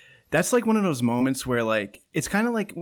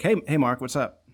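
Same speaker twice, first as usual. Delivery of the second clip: mock greeting; 2 semitones higher, 3 dB louder than usual. Testing the greeting on Mark, hammed-up. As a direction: greet him like a pumped-up buddy. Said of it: "let me try it on you".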